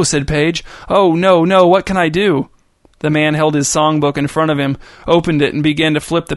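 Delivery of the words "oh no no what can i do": put-on panicked girl. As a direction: blurt it out in alarm. Page panics at the news.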